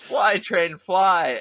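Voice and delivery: high-pitched imitation of a yelling kid; imitated yell. Podcaster retelling his sister at the movie, high mock yell. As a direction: call it out high, like a little sister. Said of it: "my sister yells".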